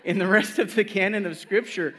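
incredulous, half laughing; laughing disbelief. Retold or imitated. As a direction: laugh at how odd it is. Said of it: "And I'm like".

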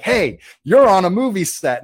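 slow, loud, high scolding shout; angry call-out. Retold or imitated. Man in Jason costume scolding parked tourists, slow loud angry call. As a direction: tell the intruders off hard. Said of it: "like, all pissed off".

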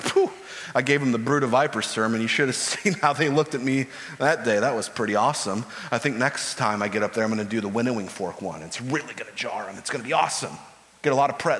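smug imagined John. Retold or imitated. John gloating to himself after the day's sermon, casual smug tone. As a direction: toss it off like a preacher pleased with himself. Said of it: "he goes home at the end of the day and it's like".

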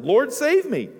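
high, loud desperate plea; a sinking man calling out; crying out for help. Acted. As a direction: Peter crying out as he sinks. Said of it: "he cried out and said".

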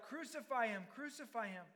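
crowd crying out. Acted. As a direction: call it out like a chanting mob. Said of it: "they cried out".

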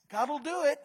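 loud, emphatic faith declaration; bold declaration. Acted. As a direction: proclaim it with full conviction. Preacher voicing faith declaration.

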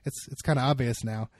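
slightly low, underwhelmed imitation; mock underwhelmed. Woman who just learned the trick's secret, mildly underwhelmed. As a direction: imitate losing interest, a little let down. Deflated reaction once secret known.

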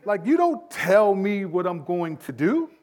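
high, loud mock outrage; indignant parent. Parent answering a demanding two-year-old, comically indignant. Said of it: "You kinda get indignant".

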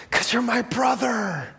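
high, slow, drawn-out dying declaration; impassioned dying cry. Acted. Shot friend tells why he jumped in, hammed-up dying cry. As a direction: stretch it out as a hammed-up last gasp. Dying of gunshot, heartfelt answer.

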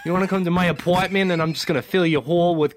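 hammed-up Boston accent, close to laughing; joking Boston-accent come-on. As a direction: try a rough Boston accent. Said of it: "the Boston accent".

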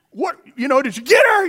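high shouted question over engine noise; calling out. Retold or imitated. Boy shouting to friend on four-wheeler, high yell.

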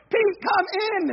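high, loud call to a stubborn dog; shouted command at the end of patience; exasperated calling. Retold or imitated. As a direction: retell an owner yelling for the dog. Owner finally calls dog loudly.

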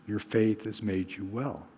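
soft, low, understated reassurance; gentle blessing. Retold or imitated. Jesus to the healed woman, gentle reassurance. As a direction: send them off kindly and quietly. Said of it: "he says".

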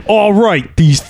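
mock-angry bad acting, slow and drawn out; pissed-off commercial. Host mimicking a pissed-off Subway commercial, mock anger. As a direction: imitate a peeved amateur in an ad, dragging the words. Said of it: "looks like a pissed off Subway commercial".

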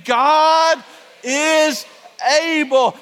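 preacher leading the crowd, loud and high; rising proclamation. Acted. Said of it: "Somebody say it with me".

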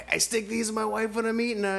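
high-pitched shout from a car window; mock drive-by yell. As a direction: yell it out at passers-by. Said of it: "started yelling at that at people from cars".

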